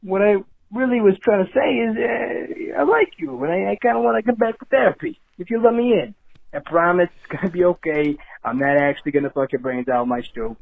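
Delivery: mild, halting Tony Soprano voicemail to his therapist; Tony Soprano impression. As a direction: leave a sheepish apology voicemail as a hint of Tony Soprano. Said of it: "I got Tony Soprano".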